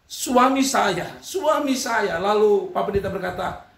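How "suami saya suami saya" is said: mock tearful. Wife coming back to the pastor, mock crying. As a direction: act out a tearful plea, haltingly. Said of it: "sambil menangis".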